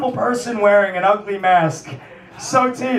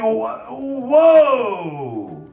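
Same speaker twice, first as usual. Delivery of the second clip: high, drawn-out cries of mock horror; scandalized God; 4 semitones higher, much slower than usual. God looking down on Sodom and Gomorrah, hammed-up scandalized cries. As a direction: play a squeamish God shouting down in disgust. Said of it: "You're telling me that God was looking".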